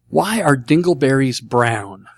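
spaced-out, deliberate question; slow reading. Real, not acted. Host reading out a listener's question, slowly and deliberately. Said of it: "With the right inflection".

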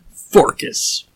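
put-on Forcus repeated in a hushed gruff Greek accent; mock a deep Greek reader. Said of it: "is that kind of deep gruff".

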